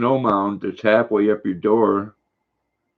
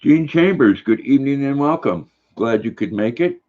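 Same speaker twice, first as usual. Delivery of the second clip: hearty welcome; 5 semitones higher than usual. Real, not acted. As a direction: welcome her like a host on stage. Greeting a viewer in chat.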